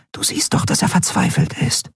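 hushed whisper to a friend. Acted. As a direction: friend Nelen urging the captain in a whisper. Nelen whispers to her friend.

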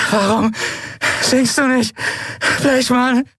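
high, strained, halting voice; broken, high-pitched mocking with gaps between words; pained taunt. A narrator's reading. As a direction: taunt your tormentor through agony, word by word. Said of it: "Unter Qualen hob sie den Kopf".

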